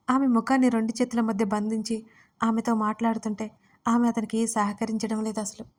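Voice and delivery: ordinary delivery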